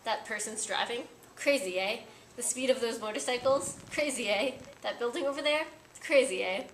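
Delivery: mock French cabbie, each "Crazy, eh?" rising at the end; fond imitation of a French taxi driver's accent, a bit loud. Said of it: "in a wonderful French accent".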